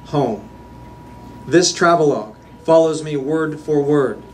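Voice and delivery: measured, emphatic poem recital; poetry reading. Acted. Poet reads a travel poem to a live audience, measured recital. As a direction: read your poem out deliberately, phrase by phrase.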